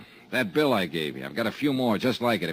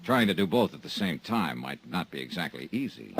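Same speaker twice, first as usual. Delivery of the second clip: dry detective voice-over; hard-boiled narration. A narrator's reading. Detective recounting his case to the listener, dry narration. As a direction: narrate it like a weary private eye.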